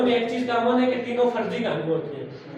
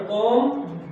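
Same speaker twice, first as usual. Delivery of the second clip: कॉम्पेनियन split into three spaced syllables; teacher sounding out कॉम्पेनियन part by part. Shown as a demonstration. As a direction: read कॉम्पेनियन in pieces, a pause after each. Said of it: "इसको पढ़ते हुए आप कितने लफ्ज़ों में तोड़ सकते हैं".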